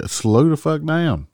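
drawn out, high and slow; slow emphatic scold. Real, not acted. Cop telling speeders to slow down, slow and high. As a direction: spell out each word to the speeders.

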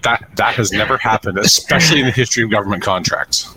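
deadpan mock sincerity; sarcastic. Real, not acted. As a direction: lay it on thick. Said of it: "I'm laying it on pretty thick".

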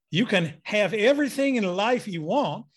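a modest nod to the Southern drawl of a beloved speaker; Zig Ziglar's Southern drawl. Retold or imitated. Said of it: "that Southern drawl, which I didn't do justice to".

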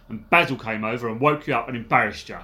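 London gangster's Cockney; Cockney accent. Shown as a demonstration. Podcaster re-reading a gang member's bugged remark on request, Cockney accent. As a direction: have a go at proper Cockney. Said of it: "in a proper Cockney accent".

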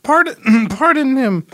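high coaxing plea. Acted.

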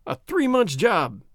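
slowed, pained groan; injured doctor groaning at the long recovery, slow. A narrator's reading. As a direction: push it out through the pain. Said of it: "he groaned".

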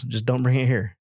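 retold line with a laugh; laughing quote. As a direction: chuckle through the punchline. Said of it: "He goes".

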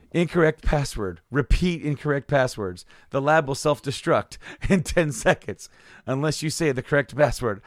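mock self-destruct notice; computer warning. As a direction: lightly imitate a lab computer's warning.

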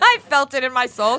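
high squealing laugh through the words. Real, not acted. Friend cracking up at the story, laughing.

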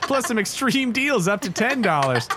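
lively commercial patter; ad read. Acted. Co-player recites the Five Below blurb, ad-read delivery. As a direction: sell it like a store advert. Reads store's slogan aloud.

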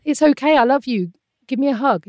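high, soothing parent voice; acted-out motherly reassurance; comforting. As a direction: console a child who fell over. Voicing a parent comforting fallen child.

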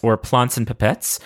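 "Plants" with a broad British "ah" vowel, lightly; a hint of the hosts' British accent; imitating British accent. Naming a fellow show the way its British hosts say it. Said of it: "as they say".

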